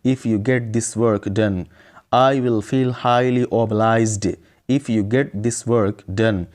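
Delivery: very slow, deliberate English for learners; slow model sentence. Shown as a demonstration. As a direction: model the sentence slowly, word by word. Teacher models the English sentence slowly. (سبق کے لیے ٹھہر ٹھہر کر)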